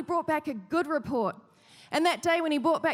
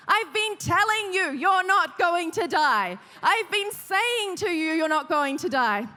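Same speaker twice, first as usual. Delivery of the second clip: raised, slowed, insistent told-you-so; exasperated mum; 2 semitones higher, 3 dB louder than usual. Retold or imitated. Mum to her son in the car, exasperated and raised.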